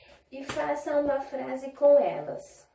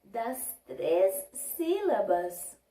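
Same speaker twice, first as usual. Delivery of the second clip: slow; 3 semitones lower, much slower than usual. Shown as a demonstration. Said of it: "Conseguimos ouvir o som".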